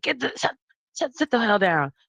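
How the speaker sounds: high, faltering scolding tone. Retelling how a man in the building yells at his dog: imitating a neighbor yelling at his dog. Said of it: "he yells at his dog".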